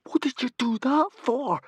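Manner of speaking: high sharp whisper; hiss. A narrator's reading. Fishlegs rebuking Humongous in a hissed whisper. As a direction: hiss it accusingly. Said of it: "hissed Fishlegs".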